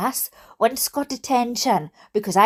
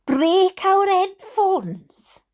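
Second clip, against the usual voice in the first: very slow, drawn-out incredulous question; outraged disbelief; 6 semitones higher, much slower than usual. Real, not acted. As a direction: stretch it out, appalled. Shocked at teacher's threat.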